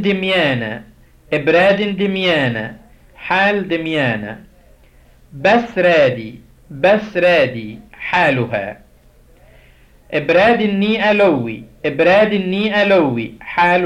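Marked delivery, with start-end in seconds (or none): 5.3-8.8 بسرادي said slowly with each syllable separate; slow Coptic drill. Shown as a demonstration. Teacher modelling Coptic conjugation for class, slow and clear. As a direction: pronounce بسرادي slowly so students can copy. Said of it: "ناخد".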